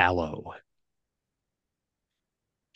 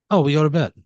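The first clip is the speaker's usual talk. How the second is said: tiny worker; 5 semitones higher, 7 dB louder, faster than usual. Acted. GM voices cheerful tiny worker.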